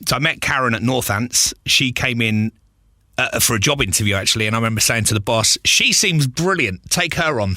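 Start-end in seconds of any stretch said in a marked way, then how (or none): 5.6-7.5 drawn-out, deliberate mock recommendation; slow retold quote. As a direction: spell out the praise slowly and knowingly. Retelling what he told the boss.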